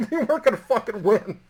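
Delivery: breaking into laughter while talking; helpless laugh in the voice. Real, not acted. Laughing at the hopeless situation.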